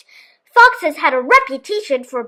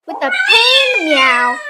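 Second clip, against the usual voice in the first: much higher, a hurt cat cry in the words; pained meow; 13 semitones higher than usual. A narrator's reading. Narrator mimicking the cat's pained meow, high.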